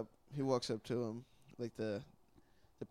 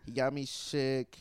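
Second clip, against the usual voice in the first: slow, much louder, hammed-up denouncing; mock accusation; 8 dB louder, slower than usual. Friend airing a grudge on the pod, slow loud mock accusation. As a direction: proclaim the grievance slowly and loud for the mic.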